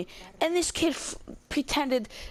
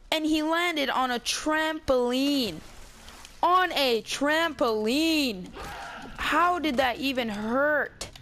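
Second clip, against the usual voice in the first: incredulous; 4 semitones higher, much slower than usual. Retold or imitated. Disbelief about the trampoline injury.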